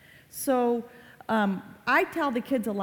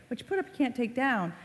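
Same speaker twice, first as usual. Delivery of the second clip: higher-pitched imitation of a lecturing mom; lightly voiced mom with a wagging finger; nagging mom; 4 semitones higher, faster than usual. Mom warning her daughter about posting, lightly nagging.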